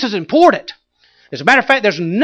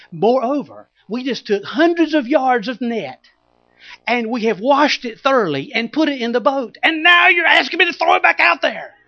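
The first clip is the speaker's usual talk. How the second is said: griping; 5 semitones higher than usual. Acted. Peter griping at Jesus about the nets, building to anger. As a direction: complain it, building to a yell. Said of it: "grumbling and griping the whole time".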